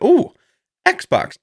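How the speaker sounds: high, delighted ooh at Xbox; mock excitement. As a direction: gush like a kid seeing a treat. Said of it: "I was like".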